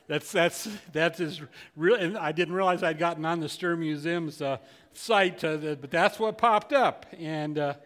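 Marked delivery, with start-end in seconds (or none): none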